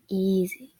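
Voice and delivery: tender hush; cooing. Acted. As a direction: soothe her gently. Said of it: "Sans coos".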